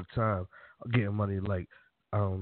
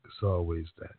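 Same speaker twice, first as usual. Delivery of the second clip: creepy voice; 8 semitones lower than usual. Acted. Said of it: "Creepy voice".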